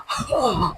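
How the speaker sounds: soft laugh under the breath; amused chuckle. Acted. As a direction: chuckle quietly at your own jibe. Joking about buffalo-tough skin.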